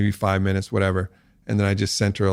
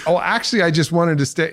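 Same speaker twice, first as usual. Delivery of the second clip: higher mimic of partner; 8 semitones higher than usual. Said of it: "and she was like".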